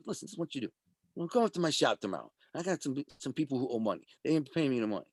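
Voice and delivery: softened, confidential imitation; whisper. Tony recruiting Alonzo to collect debts, hushed imitation. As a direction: give instructions under your voice, as a retold secret. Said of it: "Come here and whisper".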